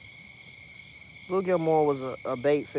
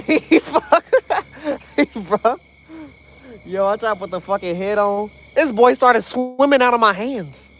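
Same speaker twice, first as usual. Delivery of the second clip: frat bro; 7 semitones higher, 7 dB louder than usual. Real, not acted. Fish escapes, excited yelling bro.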